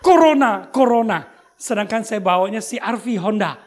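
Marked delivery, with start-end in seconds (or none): 0.0-1.2 loud taunting yell, half laughing; mocking shout. Pastor retelling kids yelling at him, mock taunting shout. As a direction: retell the kids' teasing shout. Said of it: "Dia teriak".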